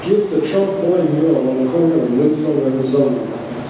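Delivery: measured, declaimed poetry reading with pauses between items; poem reading. Acted. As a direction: read it out like a numbered poem to an audience. Reads own poem aloud to audience.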